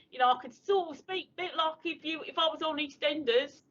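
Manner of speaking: EastEnders-style Cockney impression; Cockney accent. Shown as a demonstration. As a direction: put on a soap-opera East London accent. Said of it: "I sound a bit more like Kathy Burke".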